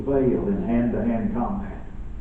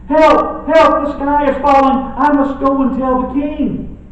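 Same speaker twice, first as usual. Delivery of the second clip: much higher, louder panicked hen cry; panicky Chicken Little; 11 semitones higher, 5 dB louder than usual. Acted. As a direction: squawk it out like a frightened little chicken. Preacher voices panicky Chicken Little.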